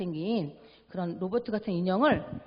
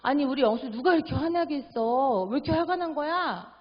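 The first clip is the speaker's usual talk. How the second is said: gentle asking; 5 semitones higher, 4 dB louder than usual. Retold or imitated. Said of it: "차라리 그럴 때는".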